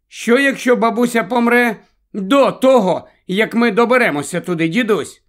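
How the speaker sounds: a hint of an inquisitive girl; questioning granddaughter. A narrator's reading. Girl asking grandfather about grandma dying, lightly childlike.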